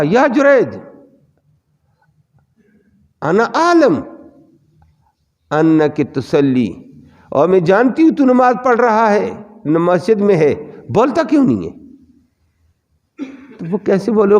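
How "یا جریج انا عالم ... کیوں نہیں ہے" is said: impatient mother calling. Retold or imitated. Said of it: "تو ماں نے دوبارہ کہا".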